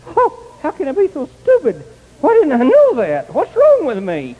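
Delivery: self-reproach. Retold or imitated. Berating himself in retold scene.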